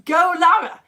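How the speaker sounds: high, loud mock German accent. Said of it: "trying to do a German accent".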